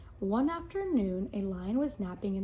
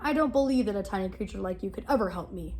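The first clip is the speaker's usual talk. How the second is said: impatient lion; 3 semitones lower, 4 dB louder, faster than usual. Acted. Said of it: "said the lion".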